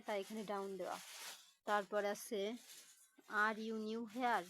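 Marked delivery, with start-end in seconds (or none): 3.3-4.4 slow, "here" falls at the end; falling tone. Shown as a demonstration. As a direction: let "here" drop in pitch, slowly. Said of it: "এটাও কিন্তু কণ্ঠস্বর আমাদের নিচে নামে". ("here" শব্দে গলা নিচে নামিয়ে, ধীরে)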